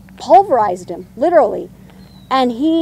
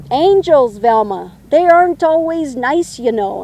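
attempted Irish accent, higher and punched; lilting up high in a rough Irish accent; 4 semitones higher, 4 dB louder than usual. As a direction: imitate a friend's put-on Irish accent. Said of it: "pretend that he had an Irish accent".

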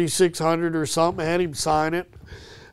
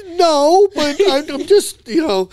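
imitating Roger; 10 semitones higher, 5 dB louder, slower than usual.

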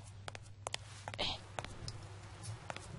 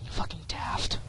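whispered mutter; 5 dB quieter, slower than usual. Real, not acted. Muttered aside.

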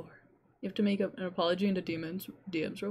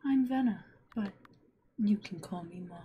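witch voice. Acted.

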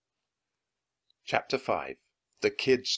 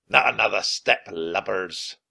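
pirate captain voice; 4 dB louder than usual. Acted. Pirate threatens at gunpoint.

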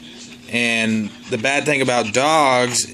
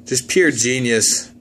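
mock pride; slower than usual. Real, not acted. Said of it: "I engineered those".

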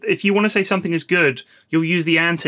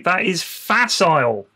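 posh professor voice; slower than usual. Pretend. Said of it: "you sound like a professor".

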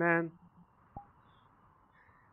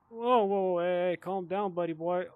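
startled calling out; 3 semitones higher, 6 dB louder than usual. Real, not acted. Game character pushes him.

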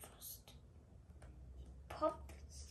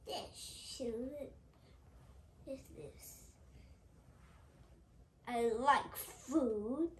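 greedy character; 2 semitones higher, 5 dB louder, slower than usual. Acted. Mister Greedy wanting food.

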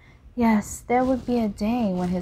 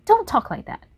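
pleading; 4 semitones higher, 4 dB louder than usual. Acted. Painter pleading with Dorian.

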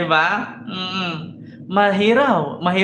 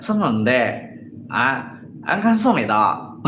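mock Korean; 8 semitones lower, slower than usual. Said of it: "pag sa Korea naman".

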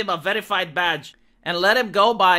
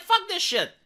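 exasperated coder; 5 semitones higher than usual. Retold or imitated. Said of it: "He said, like".

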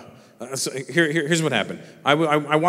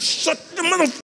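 high-pitched mock outrage; imitated angry daughter. Daughter acting like a real woman to dad, mock angry scolding. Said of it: "she's like a real woman now".

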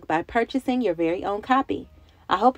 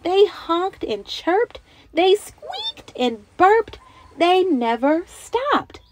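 higher, slower, playful building list; building excitement; 8 semitones higher, 3 dB louder, much slower than usual. Acted. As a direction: savour each noisy animal sound. Listing noisy animal sounds.

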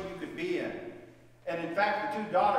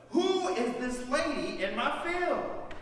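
curious surprise; 7 semitones higher, slower than usual. Acted. Boaz spots Ruth.

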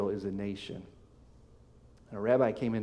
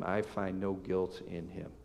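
slow, softer mocking dismissal; 5 dB quieter than usual. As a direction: say it with quiet scorn, slowly. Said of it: "He's mockingly responding to Jesus".

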